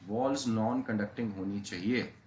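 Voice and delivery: slow, spaced dictation for notes; dictating a condition word by word. Shown as a demonstration. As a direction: spell it out slowly for students to write. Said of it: "dictating a key condition".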